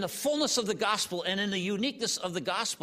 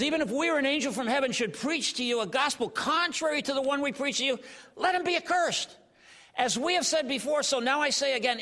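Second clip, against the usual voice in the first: fiery scripture; 6 semitones higher than usual. Retold or imitated. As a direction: preach it again with force. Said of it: "He says".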